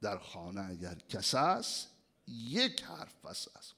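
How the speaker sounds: soft whispered proverb. Acted. Preacher whispering a proverb to the listeners. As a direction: hush it knowingly.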